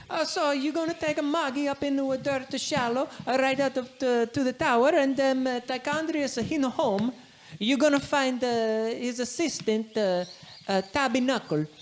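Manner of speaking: a nervous local giving the quest in broken English; Giuseppe's broken-English voice. Acted.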